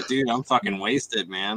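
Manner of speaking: lazy slurred party dude; stoner slang. Retold or imitated. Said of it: "That's what we used to say".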